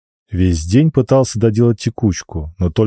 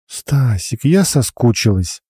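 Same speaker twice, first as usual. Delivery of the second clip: bossy little princess; 4 semitones higher, slower than usual. Acted. Alina flirts with Stas.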